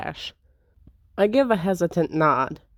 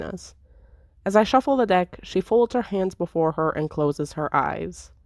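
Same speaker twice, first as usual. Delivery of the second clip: story narration. A narrator's reading. Reading the game's narration.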